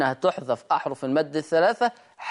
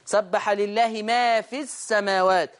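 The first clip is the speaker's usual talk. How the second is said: Quran recitation; 3 semitones higher, slower than usual. Shown as a demonstration. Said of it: "وصلت يحذف حرف المد".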